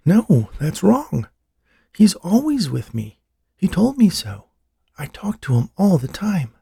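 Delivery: high, insistent protest; slow, stretched words pitched high in agitation; upset woman insisting she is right; agitated. A narrator's reading. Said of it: "Eleanor became suddenly agitated".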